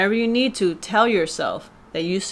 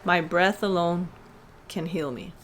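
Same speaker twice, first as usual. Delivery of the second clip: with intention. Shown as a demonstration. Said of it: "Just say that with intention".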